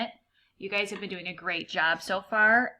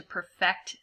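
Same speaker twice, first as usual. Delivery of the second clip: perfect as a verb, per-FECT; stress on second syllable. Shown as a demonstration. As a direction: put the weight on FECT in perfect. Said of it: "try to use the words as a verb".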